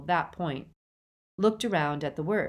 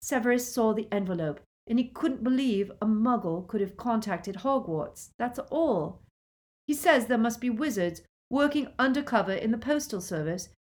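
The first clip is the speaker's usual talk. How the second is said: raised-pitch justification; defensive; 6 semitones higher than usual. A narrator's reading. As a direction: explain yourself, on the defensive. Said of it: "Lily was on the defensive".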